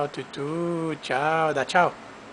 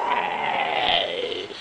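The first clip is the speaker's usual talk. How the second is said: mock panic gasp; 10 semitones lower, 4 dB quieter than usual. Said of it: "cara do pânico".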